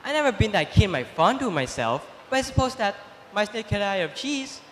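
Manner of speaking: quick, soft confiding stranger; scheming stranger. Acted. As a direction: whisper doubts to the cat. Stranger stirs up Cat.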